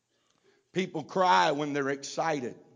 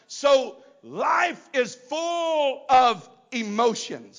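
raised, emphatic pulpit delivery; forceful preaching; 5 semitones higher, 5 dB louder than usual. Acted. Preacher gives congregation a psalm on tears, forceful preaching. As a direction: preach it out in measured phrases.

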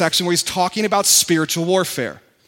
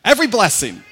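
repeating with enthusiasm; 4 dB louder than usual. Shown as a demonstration. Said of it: "just tell them".

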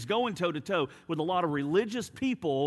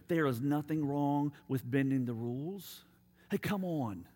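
low-key, softer persuasion; coaxing tempter; 3 semitones lower, 5 dB quieter than usual. Acted. Devil selling the bending of rules, casually coaxing. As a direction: sidle up and talk them into it.

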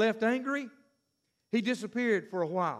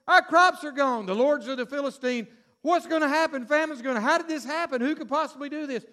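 panicked townsfolk; 4 semitones higher, 4 dB louder than usual. Acted. Philistines panicking over crops.

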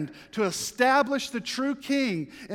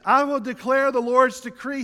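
proclaiming King; 6 semitones higher, 8 dB louder than usual. Acted.

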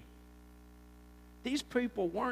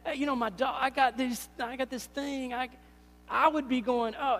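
flustered excuses; 2 semitones higher, 3 dB louder than usual. Retold or imitated. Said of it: "a singer".

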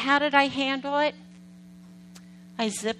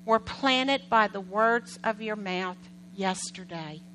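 slow emphasis. Shown as a demonstration. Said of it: "repeats key line for emphasis".

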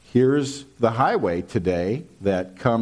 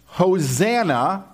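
crowd shout; 6 semitones higher, slower than usual. Retold or imitated. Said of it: "were shouting".

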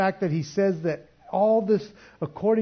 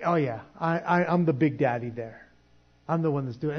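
mock big-shot swagger; braggadocious. Preacher imitating a church member who boasts, mock braggadocious. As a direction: play a mildly puffed-up church boss. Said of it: "this braggadocious kind of attitude".

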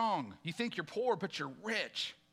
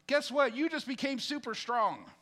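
1 rousing call; 4 semitones higher than usual. Real, not acted. Preacher's punchline to the congregation.

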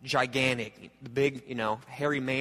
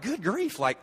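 awed surprise; 4 semitones higher than usual. Retold or imitated. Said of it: "you're like".

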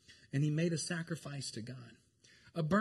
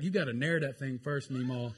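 laughing protest; 11 dB louder than usual. Retold or imitated. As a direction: laugh her off fondly but firmly. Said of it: "you're like".

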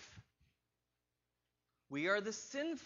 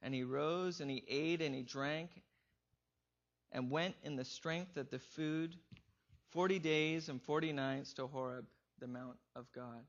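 lower, softer, measured Bible reading; scripture reading; 7 semitones lower, 4 dB quieter than usual. Acted. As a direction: read the passage quietly, like holy text.

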